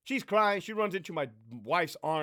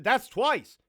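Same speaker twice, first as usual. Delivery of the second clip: stern scold; 3 semitones higher, 4 dB louder than usual. Retold or imitated. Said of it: "I said".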